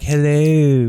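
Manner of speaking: lightly imitated California accent; a hint of a California surfer accent; mild mock California accent; hard California accent. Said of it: "like a hard California accent".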